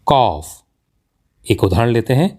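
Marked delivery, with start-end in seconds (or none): 0.1-0.5 कॉफ said as "kawf", long aw; correct pronunciation. Shown as a demonstration. Teacher gives learners the correct word, carefully pronounced. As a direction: say कॉफ with a long rounded vowel. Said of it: "इसका सही उच्चारण होता है".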